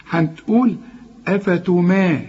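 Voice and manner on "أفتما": أفتما with a thin "mae"; light meem. Shown as a demonstration. Teacher builds the word first, أفتما with light meem. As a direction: break off after a light ma in أفتما. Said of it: "كلها مرققة".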